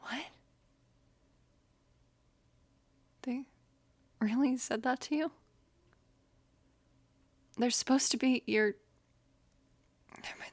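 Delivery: restrained anger. Hearing what someone said to the listener; holding back anger. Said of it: "I'm trying not to get angry".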